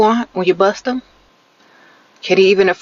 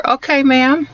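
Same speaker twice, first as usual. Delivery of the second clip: impressed; 8 semitones higher, slower than usual. Pretend. Cheering a lucky woman.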